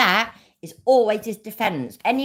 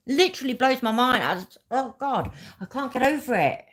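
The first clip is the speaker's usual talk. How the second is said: incredulous rant at a higher pitch; exasperated insistence; 6 semitones higher than usual. Real, not acted. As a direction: drag out each point, pitched up in real exasperation. Real rant, exasperated disbelief.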